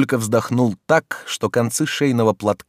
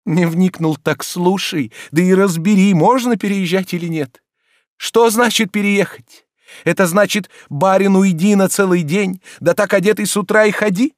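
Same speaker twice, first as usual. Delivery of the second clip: high, loud reproachful scolding; indignant master; 12 semitones higher, 6 dB louder than usual. Acted. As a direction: scold the servant in wounded outrage. Oblomov lectures Zakhar.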